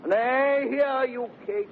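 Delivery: high insistent call; stopping her. Acted. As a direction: stop her from leaving. Holding her back.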